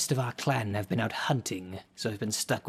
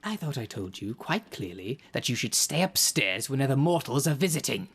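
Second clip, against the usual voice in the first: scolding; 3 semitones higher than usual. Acted. Caretaker scolds the underling.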